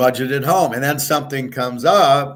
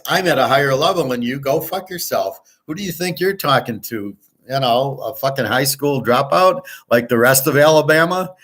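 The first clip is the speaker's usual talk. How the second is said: retold indignant tirade; 2 semitones higher than usual. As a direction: retell telling someone off, voice raised in pitch. Retold furious tirade at a treasurer.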